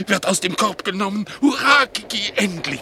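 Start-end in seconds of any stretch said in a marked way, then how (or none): 1.4-2.8 much higher, bursting cheer; high excited hurrah; joyful cheer. Acted. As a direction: greet her with a delighted shout. Dog greets the cat joyfully.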